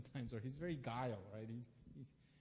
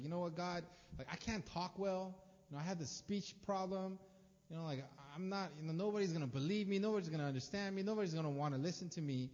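higher-pitched, hurried mild protest; pleading excuses; 3 semitones higher, faster than usual. Acted. Moses trying to talk God out of sending him, mild pleading. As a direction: reel off excuses to get out of it. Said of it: "he's trying to talk him out of it".

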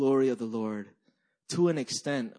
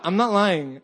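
usual speaking voice

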